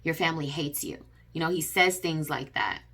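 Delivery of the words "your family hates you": cold put-down. Retold or imitated. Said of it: "This is what he told me".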